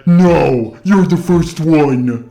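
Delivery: dry sarcastic slow reply; deadpan sarcasm, drawn out. Retold or imitated. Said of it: "I sarcastically said".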